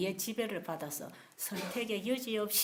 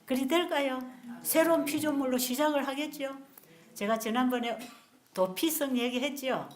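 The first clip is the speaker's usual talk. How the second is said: usual speaking voice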